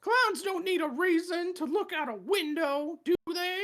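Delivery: clown voice. Acted. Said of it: "in your clown voice".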